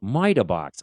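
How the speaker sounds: MITER with the R dropped, Boston style; thick Boston accent. Retold or imitated. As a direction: say Miter box like a Bostonian teacher. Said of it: "had the thickest Boston accent".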